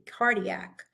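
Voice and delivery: cardiac with a hard K at the start; hard K sound. Shown as a demonstration. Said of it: "pronounced like a K".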